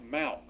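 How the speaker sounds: MALK as one short syllable; one-syllable Malk, standing alone; original monosyllabic form. Shown as a demonstration. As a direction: say Malk with no vowel between L and K. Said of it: "All one syllable".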